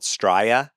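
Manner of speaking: Australia shortened to "Strya"; local Australia pronunciation. Shown as a demonstration. Relaying Australians' name for their country, clipped to "Strya". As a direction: say "Strya", first syllable of Australia dropped. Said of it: "told me it's called".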